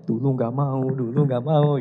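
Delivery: lightly mocking, drawn-out tease; inward teasing. Son silently laughing at his once-reluctant mother, lightly teasing. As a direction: imitate a private gloat, laugh just behind it. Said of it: "saya dalam hati ketawa-ketawa aja".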